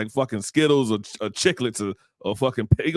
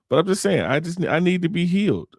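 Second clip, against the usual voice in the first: mock pleading; 7 semitones higher than usual. Mock plea.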